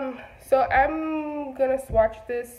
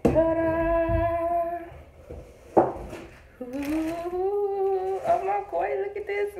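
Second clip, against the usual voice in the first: high, drawn-out ta-da and awed ooh; excited reveal; 8 semitones higher, much slower than usual. Real, not acted. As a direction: sing out the reveal, high and thrilled. Revealing the new palette.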